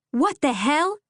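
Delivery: a winded mother bursting into the barn, gasping in shock; breathless shock. A narrator's reading. Mother bursting into the barn, gasping in shock. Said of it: "she gasped for breath".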